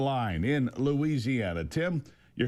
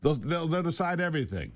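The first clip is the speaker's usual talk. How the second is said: stammered mock assurance; sarcastically insist, tripping over the first word; sarcastic; 2 semitones higher than usual. Real, not acted. Host mocking all-deciding judges, sarcastic. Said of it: "That's sarcasm, obviously".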